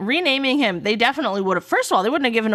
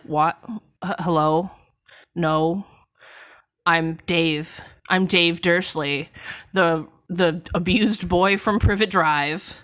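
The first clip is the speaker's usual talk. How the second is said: a slightly lower, slower, puzzled Harry; deeper Harry voice; 4 semitones lower, slower than usual. Acted. Harry insisting to Ron he is Dave, in a lightly deepened slow voice. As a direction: drop the voice a little and drag the words, playing confused. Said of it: "I gave Harry a deeper voice there".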